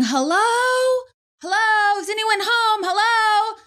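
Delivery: high-pitched calling-out of an intruder; imitated yelling. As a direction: mimic someone calling into a house. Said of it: "he starts yelling".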